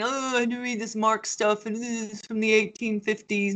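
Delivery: mock student whine, dragging the grumble; complaining students. Teacher imitating students who complain about reading Marx, mock complaining. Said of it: "they come in and complain".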